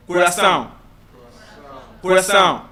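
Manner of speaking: CORAÇÃO with the final ÃO sent through the nose; nasalised ÃO at the end of CORAÇÃO; nasal pronunciation. Shown as a demonstration. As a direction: model CORAÇÃO for repeating, nasal ending. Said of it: "stress your oronasal cavity".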